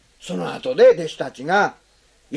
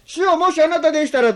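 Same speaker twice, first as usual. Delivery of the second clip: half-hearted, testing tone; doubtful testing; 7 semitones higher than usual. Shown as a demonstration. Preacher contrasting Peter's doubtful words, tentative. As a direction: hedge it, not quite trusting. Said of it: "どう違いますか".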